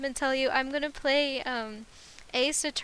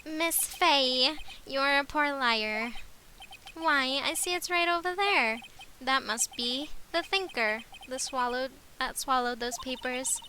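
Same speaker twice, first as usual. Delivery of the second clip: villain voice for that guy; 3 semitones higher than usual. Acted. Villain taunting Miss Fey, in a put-on slow villain voice. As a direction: savor each word like a smug crook. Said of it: "I'ma keep that voice".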